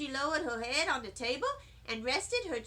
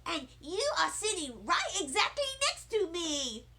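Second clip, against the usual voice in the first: much higher, louder excited shouting; squealing little-girl excitement; thrilled shout; 9 semitones higher, 4 dB louder than usual. A narrator's reading. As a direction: call out to Nana thrilled. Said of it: "I shouted".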